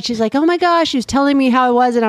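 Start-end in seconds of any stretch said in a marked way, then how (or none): 0.3-0.9 mock-elated, higher-pitched quote; excited daughter. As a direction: lightly imitate an excited daughter. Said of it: "She's so excited".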